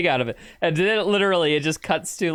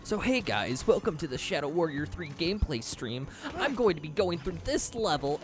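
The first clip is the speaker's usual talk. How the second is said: clickbait video narrator; 4 dB quieter than usual. Retold or imitated. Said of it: "They all talk in the YouTuber voice".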